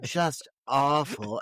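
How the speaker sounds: slow, drawn-out imitation of a bad line; mock line delivery. Podcaster mocking Laura's awful line, drawn-out imitation. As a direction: stretch it out as a cheesy film line. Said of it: "line delivery".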